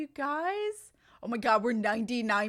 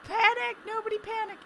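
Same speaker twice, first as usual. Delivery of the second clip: mock panic; 11 semitones higher, 5 dB louder than usual. Mock alarm over audio problem.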